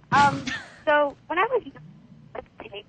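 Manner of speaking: crackly phone line breaking up; payphone call. Real, not acted. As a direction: caller cutting out on a payphone. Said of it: "you're kind of break-, you're breaking up".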